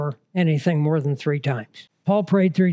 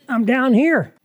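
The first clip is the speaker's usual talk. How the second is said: higher-pitched imagined call to the preacher; calling for attention; 5 semitones higher than usual. Retold or imitated. Listener to a preacher who won't look at the congregation, calling for attention. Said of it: "I kept wanting to go".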